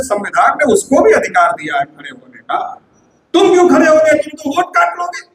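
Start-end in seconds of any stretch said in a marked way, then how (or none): 3.3-5.2 angry retort. Retold or imitated. Voter accusing the candidate of splitting votes, irritated retort. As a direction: throw the question back with irritation. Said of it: "हमारा आदमी बहुत गुस्से में रहता".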